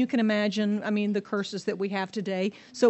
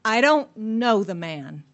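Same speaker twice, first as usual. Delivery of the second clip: slow, louder brush-off of the man; dismissive; 6 dB louder, slower than usual. Acted. Peter waving off Jesus before the crowd, slow and dismissive. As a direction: say it like he means nothing to you. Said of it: "So dismissive".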